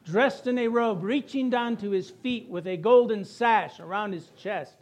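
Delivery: measured, projected congregational reading; scripture read aloud. Acted. Preacher reads scripture together with congregation, projected reading aloud. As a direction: lead the congregation through the verse.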